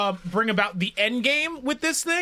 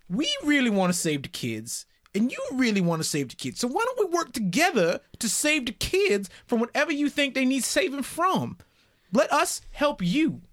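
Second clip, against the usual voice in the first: put-on Southern accent. Player coaxing the prisoner with a growing Southern accent. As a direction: coax him like a Southern gentleman, accent creeping in. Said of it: "Getting more southern as we go".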